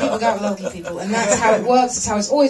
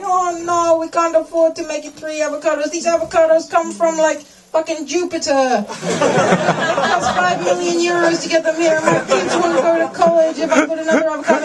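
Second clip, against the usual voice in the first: pleading vendor; 4 semitones higher than usual. Retold or imitated. Avocado seller refusing to add one, pleading and high. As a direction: beg like a struggling stallholder. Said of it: "They're like".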